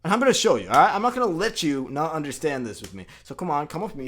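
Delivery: high, goofy, over-eager hero; hammed-up superhero full of goofy enthusiasm; goofy Spider-Man. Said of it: "he's this goofy attitude".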